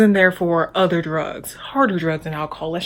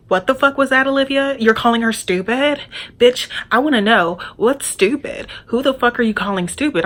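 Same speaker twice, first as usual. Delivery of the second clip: higher, mock-angry confrontation; retold yelling; imitated yelling; 4 semitones higher than usual. Roommate's friend confronts Olivia across the room, mock yell. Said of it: "she's, like, yelling".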